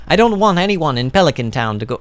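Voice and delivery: badly faked Italian accent; half-hearted Italian character voice; attempted Italian accent. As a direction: try a light Italian accent. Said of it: "I wanna do an Italian voice for Gus".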